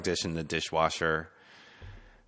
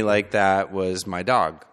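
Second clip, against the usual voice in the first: slow, tender; slower than usual. Real, not acted.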